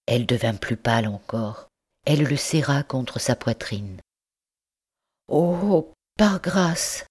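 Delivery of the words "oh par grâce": put-on higher, pleading cry from a young mother; cri suppliant. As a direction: beg him desperately for her baby. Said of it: "cria-t-elle". (supplication criée, voix plus aiguë)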